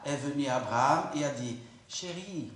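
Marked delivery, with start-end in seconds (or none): 1.9-2.5 sweet-talking. Shown as a demonstration. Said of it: "pardonne-moi mon intonation de voix".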